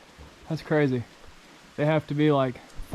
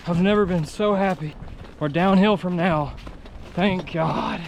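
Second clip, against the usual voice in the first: excited relief; 3 semitones higher, 4 dB louder than usual. Real, not acted. Relief at reaching downhill.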